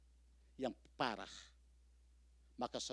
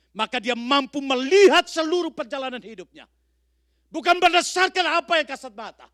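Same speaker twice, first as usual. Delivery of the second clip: higher and much louder, hammering each sedalam apapun; preaching at full force; 13 semitones higher, 26 dB louder than usual. Acted. Preacher thundering at the congregation about suffering, full-force preaching. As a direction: build to a thundering pulpit cry.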